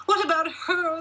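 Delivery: high, loud wail; wailing giantess. A narrator's reading. Mother wailing to her husband about their daughter, high and loud. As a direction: cry it out in protest. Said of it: "the wife wailed".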